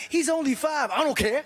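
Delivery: a light impression of the wife defending the kid; wife pushing back. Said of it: "my lady's like".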